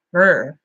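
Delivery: short, low trilled purr; playful purr. Pretend. Vlogger hamming up the sexy Spanish twang, purring. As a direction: roll a mock-sultry brr.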